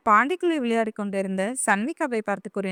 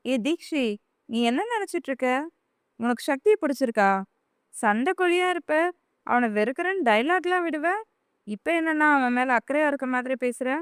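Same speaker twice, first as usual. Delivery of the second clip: stunned at what she just heard; shocked; 3 semitones higher than usual. Acted. Elder sister shocked that Theekshi cares for Sakthi, incredulous. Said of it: "அதிர்ச்சியாக அவளை பார்த்து".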